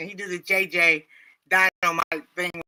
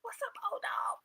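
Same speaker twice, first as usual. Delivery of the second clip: whisper; 14 dB quieter than usual. Real, not acted. Aside while other talks.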